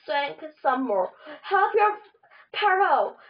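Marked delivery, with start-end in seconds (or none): 1.4-3.2 high-pitched queen calling for help; mild mock scream. A narrator's reading. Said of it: "she screamed to the guards".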